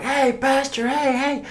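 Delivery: put-on high, bright child voices greeting the pastor; cheerful kids. Kids cheerfully greeting their pastor after the quarrel, high child voice. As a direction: sing it out like happy kids.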